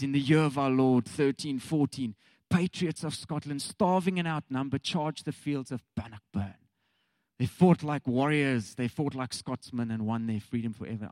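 mock-solemn movie prologue, punching key phrases; epic film narration. Preacher recites Braveheart's opening to the congregation, epic narration. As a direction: intone it like a historical epic's opening.

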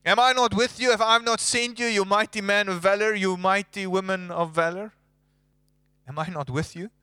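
voice of God. Retold or imitated. God stirring Moses with rising urgency. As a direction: challenge him, then build. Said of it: "God was saying to Moses".

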